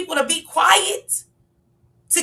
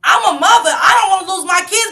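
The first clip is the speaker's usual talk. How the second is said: raised impassioned voice; 4 semitones higher, 5 dB louder than usual. Real, not acted. Mother pleading her case heatedly.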